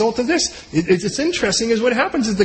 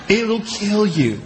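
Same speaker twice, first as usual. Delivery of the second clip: slow deadpan warning; much slower than usual. Retold or imitated. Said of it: "I'm like".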